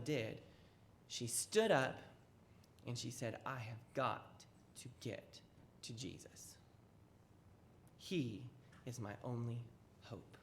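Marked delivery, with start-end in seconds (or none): 3.4-10.4 soft, low, whispered resolve; hushed, trailing to a whisper; desperate hush. Acted. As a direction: breathe it out as a secret vow.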